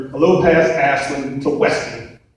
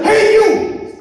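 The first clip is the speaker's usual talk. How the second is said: high shouted hey you; cop yelling. Retold or imitated. Police officer calling after the teller, shouted. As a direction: bark it like a cop on patrol. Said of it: "He says".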